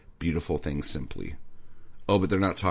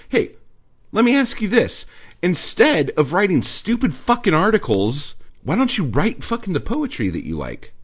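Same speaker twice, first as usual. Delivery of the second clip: higher, louder ranting at the writer; angry rant; 8 semitones higher, 5 dB louder than usual. Real, not acted. Ranting at the article's author, angry and loud. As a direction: tear into the critic.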